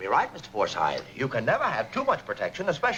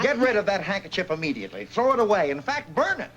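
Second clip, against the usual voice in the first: urgent order; 3 semitones higher than usual. Acted. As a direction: order it gone at once. Boss orders handkerchief gone.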